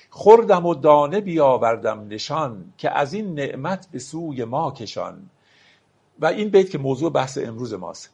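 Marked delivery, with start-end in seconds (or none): 0.1-5.3 slow, measured reading of a Persian verse; poetry recitation. Acted. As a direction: lay out each word of the couplet slowly. (دکلمهٔ آرام شعر)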